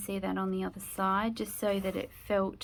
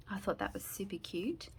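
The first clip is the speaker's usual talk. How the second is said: whispering; 7 dB quieter than usual. Real, not acted. Whispered aside about own craft.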